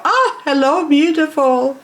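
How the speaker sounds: high cooing hello; high-pitched, smitten greeting; adoring greeting. Acted. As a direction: coo at a beloved plant. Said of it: "I just gotta go".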